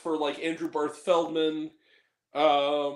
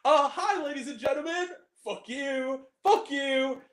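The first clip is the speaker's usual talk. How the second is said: imitating George Carlin; 7 semitones higher than usual. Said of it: "puts on his joint and goes".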